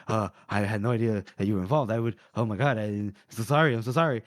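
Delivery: low-pitched, hurried apology; apologetic. Acted. He apologizes for not knowing she was involved, apologetic. Retold character apologizes in dismay.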